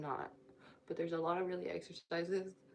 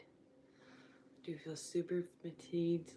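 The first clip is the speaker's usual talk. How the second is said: dragging every word slowly; slow and drawn out; much slower than usual. Real, not acted. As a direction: stretch it out, worn out. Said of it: "repeats line drawn out".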